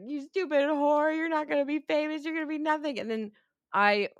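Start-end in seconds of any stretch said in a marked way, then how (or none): 0.0-3.0 mock sneer. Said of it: "she's like".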